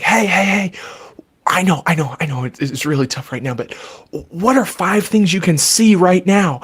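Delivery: gentle, reassuring parent voice; soothing reassurance. Shown as a demonstration. Parent comforting a panicked child, gentle and reassuring. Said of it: "run over to 'em and be like".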